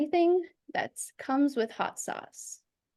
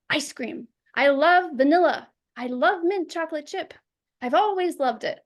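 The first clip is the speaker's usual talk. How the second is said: eager, quick start with a punch on love; jumping right in; 2 semitones higher than usual. Shown as a demonstration. Coach showing how to jump straight into the answer, eager. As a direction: dive straight into the answer with relish. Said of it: "Just jump in".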